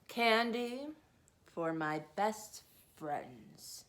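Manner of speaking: lightly voiced sailor, announcing. Sailor announces his gift to Maggie. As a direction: present it with a flourish. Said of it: "he announced".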